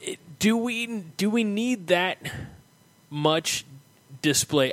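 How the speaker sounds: lightly voiced grumpy old man; a hint of a cranky old man. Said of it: "I'm gonna go very old man".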